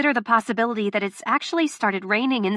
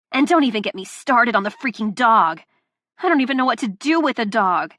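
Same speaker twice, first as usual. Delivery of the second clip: loud, raised, furious listing; angry rant; 3 dB louder than usual. Acted. Delilah berating Luca, angry and loud. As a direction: tear into him. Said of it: "this rant".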